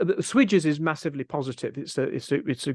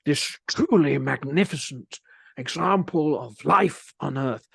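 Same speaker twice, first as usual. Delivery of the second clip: slow, hushed nature documentary narrator, lightly done; a hint of an awed wildlife narrator; David Attenborough impression. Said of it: "you did the David Attenborough impersonation".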